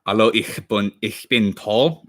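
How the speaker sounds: slow, careful German with a non-native touch, Paul drawn out on a rise; German phrase on request. Shown as a demonstration. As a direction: say Hallo, ich bin Paul like a learner trying his best. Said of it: "Can you say".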